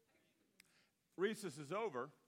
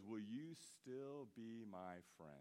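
put-on slow, soft, pleading kid; a child begging to stay friends, softly; small kid's plea; 5 semitones lower, 6 dB quieter, slower than usual. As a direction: softly ask like a hurt eight-year-old. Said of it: "I hear this kid's voice".

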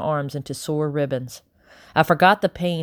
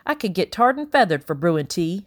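grumbling housekeeper; 4 semitones higher than usual. Acted. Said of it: "she muttered".

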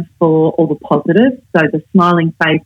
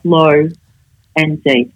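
low and deep, spaced out; low, deep leadership voice; 2 semitones lower, much slower than usual. Shown as a demonstration. Coach shows the voice people listen to, low and deep. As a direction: settle low and measured, with pauses. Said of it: "the voice of leadership ... is low".

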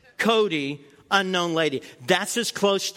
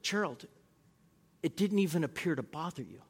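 softer, deadpan answer; wife's softer deadpan comeback; dry reply; 2 semitones lower, 10 dB quieter than usual. Retold or imitated. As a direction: tease him quietly and flatly. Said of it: "she said".

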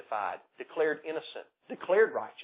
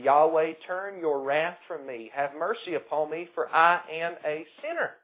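louder, slow earnest plea for mercy; pleading tax collector; 4 semitones higher, 6 dB louder than usual. Pretend. Preacher voicing the tax collector begging God, slow loud plea. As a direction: cry out to God like a repentant sinner.

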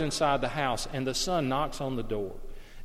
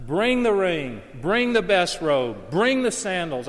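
joyful call; 3 semitones higher, 5 dB louder, slower than usual. Acted. Father calling for gifts.

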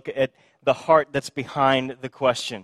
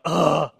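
exasperated ugh; 4 dB louder than usual. Retold or imitated. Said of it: "rolled his eyes and gone".

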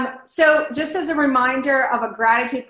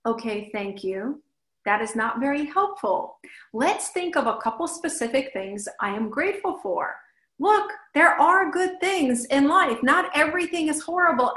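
kind but forceful; 3 semitones higher than usual. Retold or imitated. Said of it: "kindly and forcefully".

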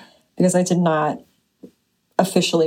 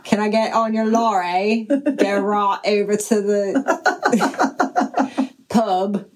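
mock British. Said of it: "It's a pub with a southern accent".

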